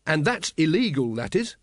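pleased to quote the law; happy. Acted. Carrot tells his captain it's illegal, happily. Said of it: "said Carrot happily".

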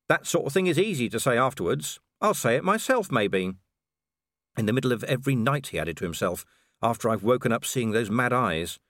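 a tired watchman throwing it back at him; Vimes. Acted. Vimes angrily justifying himself to Tantony, lightly voiced.

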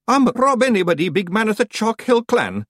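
high, loud little Scotsman; Feegle clan leader. A narrator's reading. Rob Anybody presents himself to the witch, announcing. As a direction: announce yourself in piping broad Scots.

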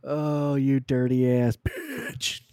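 slow, laughing; can barely get it out for laughing; laughing through words. Real, not acted. Cracking up at his friend's joke, laughing through the words.

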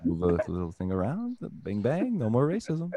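hint of a Jewish accent, salesman patter. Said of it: "that's a good Jewish accent".

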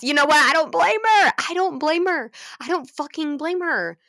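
high, loud, fired-up agreement; emphatic. Real, not acted. Defending the heroine to viewers, fired up. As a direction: declare it like you'd do the same.

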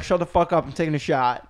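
grandma voice. Retold or imitated. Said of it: "Grandma's like".

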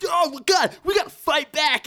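high, loud call to fight; hammed-up movie kid battle cry; rallying shout. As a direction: fire the kids up with a yell.

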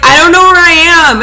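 high, loud imitated wail; hammed-up sobbing phone plea; mock crying. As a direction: imitate a lost, tearful drunk friend. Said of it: "you were crying".

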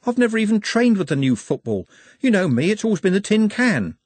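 high-pitched, reluctant excuse-making; protesting. A narrator's reading. Trev tries to get out of playing football, protesting. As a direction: plead your way out of it, pitched right up. Trev looking for an escape clause.

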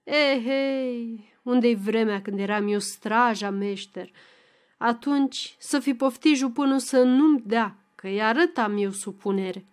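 sighing. Acted. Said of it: "clătinând din cap și oftând".

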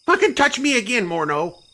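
high, loud threat through gritted teeth. Acted. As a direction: snarl it through clenched teeth. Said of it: "through gritted teeth".

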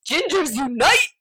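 rally the troops in jest; mock rallying cry. Reading out their message to a fellow ginger, mock rallying cry.

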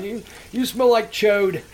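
drawn-out mocking insult; slow taunting. Prank caller slowly taunting the guy on the payphone. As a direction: sneer it out slowly. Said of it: "and all this stuff".

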